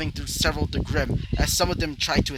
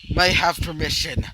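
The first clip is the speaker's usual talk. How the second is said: mild mock scream; 2 semitones higher than usual. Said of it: "he would scream out".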